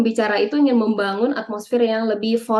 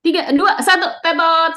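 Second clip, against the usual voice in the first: quiz countdown; 5 semitones higher than usual. Pretend. Game-show countdown and buzzer.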